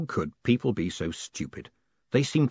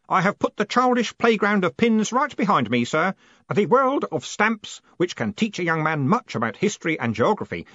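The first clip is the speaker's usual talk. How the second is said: put-on earnest young clerk; 8 semitones higher, 4 dB louder than usual. A narrator's reading. Stanley's pious speech.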